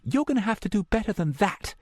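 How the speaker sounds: cold, cutting female voice; curt cutoff. A narrator's reading. Meredith cutting off the caller, curt and cold. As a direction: end the call flatly. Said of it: "Meredith cut it off halfway through".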